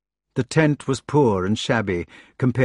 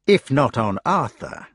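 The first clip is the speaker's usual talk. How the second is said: sneering Mordred; 2 semitones higher than usual. Acted. Mordred continues.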